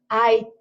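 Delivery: HAITI with a long, held TI; "Hai-tiii", ending drawn out; calling out the word. Shown as a demonstration. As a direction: call Haiti, stretching the last syllable. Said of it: "Agora, vamos chamar Haiti".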